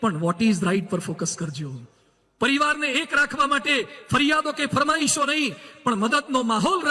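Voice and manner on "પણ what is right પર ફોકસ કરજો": slow emphatic quote. Shown as a demonstration. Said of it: "slow quoted teaching".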